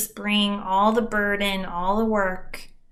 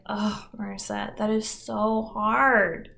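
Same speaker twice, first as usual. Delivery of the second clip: comforting; 3 dB quieter than usual. Retold or imitated. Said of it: "would comfort me like".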